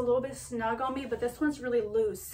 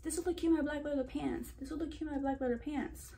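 quick, softer self-mimicry; mock self-quote; 3 semitones higher, 6 dB quieter, faster than usual. Vlogger mimicking her own catchphrase from past videos, mock self-quote. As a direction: rattle off a pet phrase lightly. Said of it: "I always say that".

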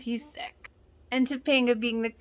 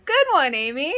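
cheering; 5 semitones higher, 7 dB louder than usual. Real, not acted. Cheering Amy's comeback.

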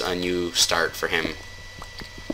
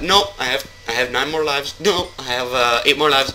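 higher-pitched, playful objection; mock protest; 6 semitones higher than usual. Player pretending he got shot in game, mock protest. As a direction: insist you are still alive, in jest. Acts someone shot, counting lives left.

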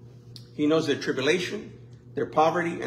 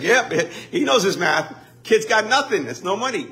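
laughing retort; 4 semitones higher, 4 dB louder than usual. Retold or imitated. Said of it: "And I was like".

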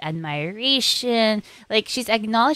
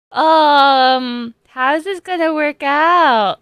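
whiny worry; 7 semitones higher, 8 dB louder, slower than usual. Real, not acted. Worried about remaining episodes.

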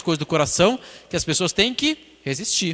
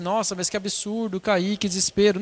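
mild mock dismay, higher pitched; mock despair; 4 semitones higher than usual. Preacher imitating someone who has just fallen, mildly despairing. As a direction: lightly act out someone dismayed at falling. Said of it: "não ficar ali desesperado".

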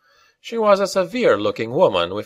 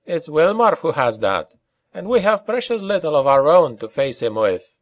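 higher, lightly voiced Scots character; character in hopeless mood; 7 semitones higher than usual. A narrator's reading. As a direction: lift the pitch, sound a little hopeless.

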